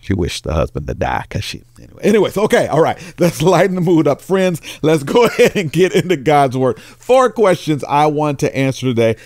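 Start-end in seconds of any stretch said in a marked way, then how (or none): 2.0-9.1 excited reset. Real, not acted. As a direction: pump the room back up after the joke. Pastor shifts after joke.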